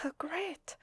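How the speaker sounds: excited whisper. Acted. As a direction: whisper it like happy news. Delighted the guest accepts.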